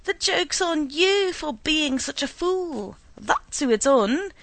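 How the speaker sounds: loud, slow bellow; slow furious bellow. A narrator's reading. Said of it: "he bellowed at his wife".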